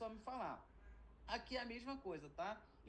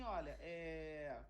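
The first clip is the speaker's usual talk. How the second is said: grave warning; 3 semitones lower, slower than usual. Retold or imitated. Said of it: "chegar pra uma pessoa e falar assim".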